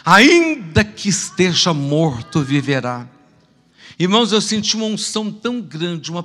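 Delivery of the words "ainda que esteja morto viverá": slow, loud solemn intoning; voice of God with tongues. Retold or imitated. Preacher voicing God speaking again amid the tumult, slow and loud. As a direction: proclaim it slowly and loudly as God speaking. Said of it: "Deus falou novamente".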